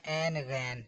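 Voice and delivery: عین غین short, rhyming like "ain, ghain"; quick flat-vowel "ain, ghain" for عین غین; common mispronunciation. Shown as a demonstration. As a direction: show the wrong everyday عین غین, unstretched. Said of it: "بالکل غلط ہے".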